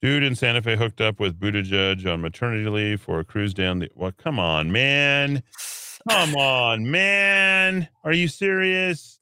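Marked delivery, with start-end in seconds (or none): 4.2-5.4 drawn-out exasperated protest, rising at the end. Real, not acted. Host reacts to an absurd headline, exasperated. 6.1-9.2 loud, high, drawn-out incredulous wail; incredulous protest. Real, not acted. Host protests an absurd headline, loudly incredulous.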